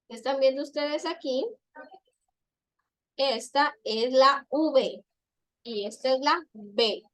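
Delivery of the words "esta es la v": "V" said slowly and clearly, as a letter name in a demonstration; teacher slowly naming the letter "V". Shown as a demonstration. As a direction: spell out "V" for the class, slowly. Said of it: "los dientes para mencionarla".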